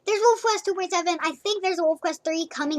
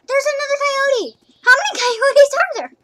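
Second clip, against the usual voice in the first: surprised; 9 semitones higher, 6 dB louder than usual. Real, not acted. Another coyote appears in game.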